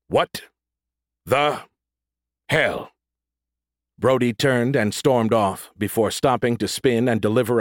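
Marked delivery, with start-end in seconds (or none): 0.1-2.9 outraged. Acted. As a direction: spell out the disbelief. Brody outraged.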